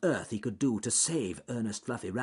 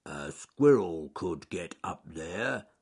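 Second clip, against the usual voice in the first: growling bear; 4 semitones lower, slower than usual. Acted. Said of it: "growled Charles Growly Bear".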